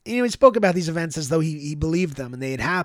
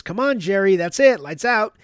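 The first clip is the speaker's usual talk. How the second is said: raised, higher voice calling across the yard; 4 semitones higher, 6 dB louder than usual. Retold or imitated. Orderly calling a patient back inside, raised call. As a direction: call him in firmly from a distance.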